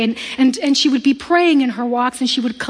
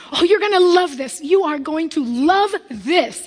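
giddy excited; 4 semitones higher than usual. Retold or imitated. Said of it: "she's super excited. I mean, like, giddy excited".

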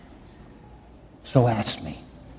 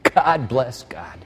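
slow, weary exasperation; slower than usual. Shown as a demonstration. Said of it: "I mean, please".

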